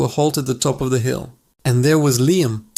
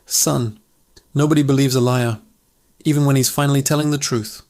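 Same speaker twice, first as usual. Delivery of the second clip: gentle; faster than usual. Acted. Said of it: "said gently".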